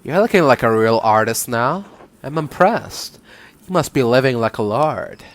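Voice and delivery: put-on woman's character voice slipping into Valley Girl; lightly put-on Valley Girl lilt; Valley Girl drift. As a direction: voice a nun with a hint of Valley Girl. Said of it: "it's slowly going Valley Girl".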